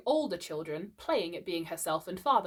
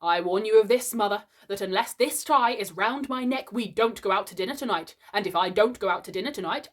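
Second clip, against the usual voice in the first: louder, grave warning; stern; 4 dB louder than usual. Acted. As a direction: threaten the household sternly. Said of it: "he went on sternly".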